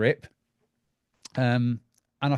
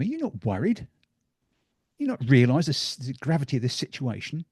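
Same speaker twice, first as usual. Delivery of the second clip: alarmed agent; 2 semitones higher than usual. Retold or imitated. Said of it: "the guy says to him".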